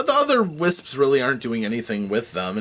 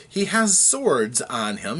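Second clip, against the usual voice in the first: usual speaking voice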